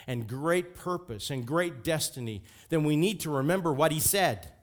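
forceful, insistent preacher, heated; angry-sounding preaching. Real, not acted. Preacher urging the church to remember his words, angry-sounding. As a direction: build a heated case and land it hard. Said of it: "Sorry, I'm getting angry".

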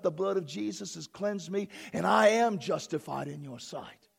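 incantatory preacher's prayer, swelling; fervent prayer. Real, not acted. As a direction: pray aloud, gathering intensity phrase by phrase. Leads a declarative prayer.

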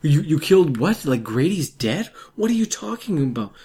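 high, loud escalating panic; mock frantic girlfriend. Host acting out the girlfriend's reaction, high frantic escalating. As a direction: build from confusion to shrieking. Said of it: "That's how that would go".

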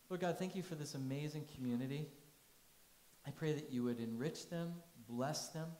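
steady prayer voice; pastor's closing prayer. Acted. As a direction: pray over the congregation.

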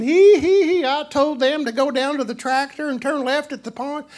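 high cackling hillbilly prankster; gleeful country folk. Acted. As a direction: crow in a high, gleeful porch-sitter's voice. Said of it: "They go down their front porch and".

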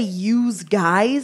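"use guys" with a buzzing Z in "use"; Z sound in "use". Shown as a demonstration. Challenging a friend's word, "use" voiced as "yooz". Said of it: "That sounds like a Z on it".

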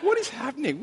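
high, laughing what is happening; laughing disbelief. Retold or imitated. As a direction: laugh through the bewildered question. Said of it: "I'm like".

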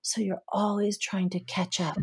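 hushed, gentle realization; soft whisper. Retold or imitated. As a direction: breathe it out quietly as an insight. Therapist's gentle insight to client.

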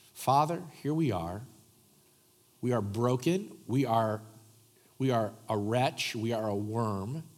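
earnest pastoral prayer, rising to passionate pleas; congregational prayer. Acted. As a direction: pray for the room, humble then swelling.

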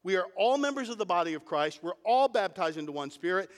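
"all" hit firmly each time it comes; stress on ALL. Shown as a demonstration. Preacher restating the verse for the congregation, "all" stressed. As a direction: punch every "all" for emphasis. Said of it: "Emphasis on the word all".

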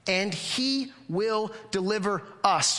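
slow, sure, he stressed; confident reading. Shown as a demonstration. A pastor reading Paul's promise with confidence. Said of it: "You hear the confidence in that?".

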